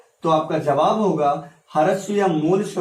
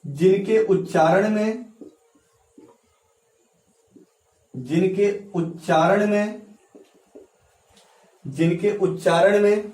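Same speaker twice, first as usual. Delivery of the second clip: dictation pace. Shown as a demonstration. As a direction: space the phrase out so students can write. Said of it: "अपने notebook में लिखते चलिएगा".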